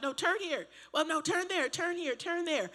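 high, pushy rapid-fire directions; bossy backseat directions. Retold or imitated. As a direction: snap out directions like a nagging backseat driver. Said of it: "'cause I was like".

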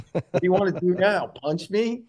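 high, taunting, breaking into a laugh; mocking taunt. Bobby retelling his taunt at the angry player, high mocking with laughter. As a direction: needle him and laugh. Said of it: "And I'm like".

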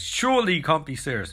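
Airplane movie quote delivery; Airplane-style deadpan Surely; Airplane line. Retold or imitated. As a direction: set up the Shirley joke deadpan. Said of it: "don't call me Shirley".

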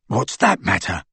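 low, dull-witted retort; surly henchman. A narrator's reading. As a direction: grumble back at your leader. Crabbe's henchman voice challenges Malfoy.

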